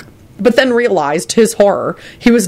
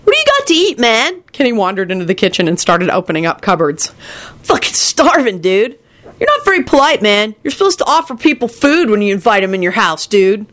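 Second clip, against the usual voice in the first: a sulky dude yelling the same phrase; high exasperated slacker voice; high whiny stoner, irritated; 4 semitones higher than usual. Acted. Kenny voice.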